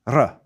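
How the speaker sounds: "R" made with the tongue tip behind the teeth; a single tongue-tip tap for "R". Shown as a demonstration. Teacher naming the Austrian tongue-tip R. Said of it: "the tip of the tongue R".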